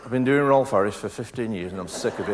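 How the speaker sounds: a light take on a fellow comic; Phil Cool impression. Comic impersonating his rival for the crowd, lightly. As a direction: barely shift into the other comedian. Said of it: "Here's my Phil Cool".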